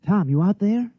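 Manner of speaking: calling out. Acted. Calling out for Tom outside.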